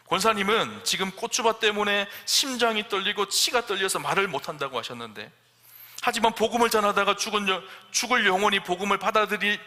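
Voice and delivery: fervent preaching. Acted. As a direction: thunder it out like a pastor calling her to repentance. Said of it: "그때 목사님이 이렇게 얘기를 합니다".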